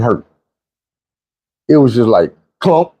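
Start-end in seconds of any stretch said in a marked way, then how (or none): 2.6-2.9 clunk sound. Retold or imitated. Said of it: "That's what it felt like".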